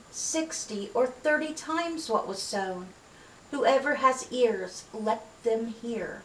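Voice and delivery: measured, deliberate parable reading; scripture reading. Acted. Reads Jesus' parable aloud.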